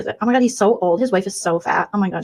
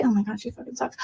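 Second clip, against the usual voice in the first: softer, snide aside; catty aside; 3 semitones higher, 8 dB quieter than usual. Acted. Two-faced streamer aside to viewers, softer and snide. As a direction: bitch about her under the breath.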